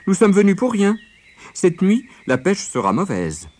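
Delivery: high, loud storybook rabbit; sly rabbit. A narrator's reading. Rabbit breaking bad news to fishing friends, slyly dramatic. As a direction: announce bad news with put-on regret, pitched high.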